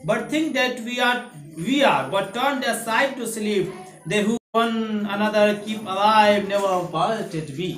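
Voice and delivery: slow, drawn-out reading of verse; poem recitation. Acted. Teacher reciting the English poem to the class, slow and solemn. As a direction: recite each line slowly and solemnly. Reads poem lines aloud.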